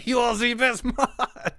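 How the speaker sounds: high laughing squeaky voice; laughing squeal. Pretend. Streamer to his mod, high squealing laugh.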